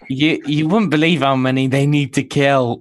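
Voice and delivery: breaking up with laughter while talking; real helpless laughter. Real, not acted. Telling co-hosts how many cockroaches they need to kill, laughing. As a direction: struggle to get the words out through laughter, pitch climbing. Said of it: "I can't even say it without laughing".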